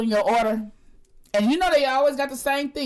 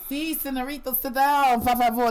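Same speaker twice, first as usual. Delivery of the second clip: put-on Spanish accent; 2 semitones higher than usual. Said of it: "the Mexicans would be coming".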